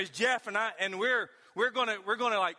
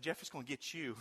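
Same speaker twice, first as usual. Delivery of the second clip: softer, lower, barely voiced; hushed scared whisper; 8 semitones lower, 12 dB quieter than usual. Hiding from a noise, whispering to Jeff in fear. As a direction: whisper it so nothing in the woods hears. Hiding, about to flee the boar.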